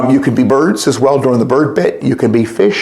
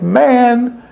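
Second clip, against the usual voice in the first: fond calling; 7 semitones higher, much slower than usual. A narrator's reading. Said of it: "calling the names of his very best friends".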